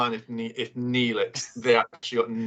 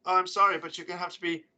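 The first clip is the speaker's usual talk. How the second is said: Postmaster voice; 5 semitones higher than usual. Acted. Postmaster villain taunting the Doctor.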